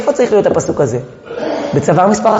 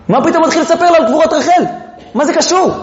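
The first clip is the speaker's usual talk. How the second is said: 1 incredulous question; 9 semitones higher, faster than usual. Real, not acted.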